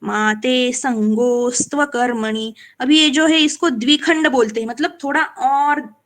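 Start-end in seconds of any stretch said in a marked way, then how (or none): 0.0-2.5 slow verse ending; slow shloka recital. Shown as a demonstration. Teacher completes the verse line slowly. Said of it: "माँ से हम आगे बोलेंगे".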